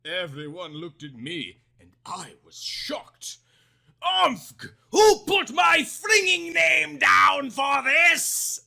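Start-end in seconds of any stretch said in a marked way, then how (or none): 4.0-8.6 high, loud outraged scream. Acted. Girl screaming at friends after being called up. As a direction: shriek it out in disbelief. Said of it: "I screamed".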